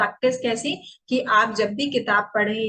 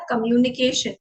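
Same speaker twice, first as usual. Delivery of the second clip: slightly stretched. Shown as a demonstration. Teacher showing learners a longer word, slightly stretched. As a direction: give कम्युनिकेशन a little extra length. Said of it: "थोड़ा लंबा मैंने उसको stretch किया".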